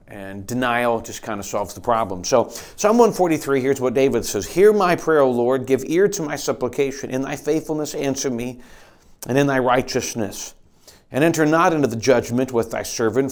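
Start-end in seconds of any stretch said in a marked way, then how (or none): 4.5-13.3 scripture reading. Acted. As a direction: read the psalm as a fervent prayer. Reads psalm aloud.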